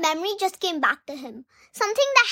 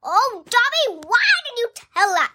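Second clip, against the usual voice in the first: Dobby voice; 5 semitones higher than usual. Retold or imitated. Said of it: "Dobby was like".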